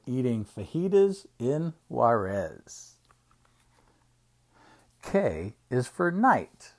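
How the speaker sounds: measured picture-book reading; reading to children. Acted. Uncle reading an alphabet book to children, storytime reading. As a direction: read it out slowly for little listeners.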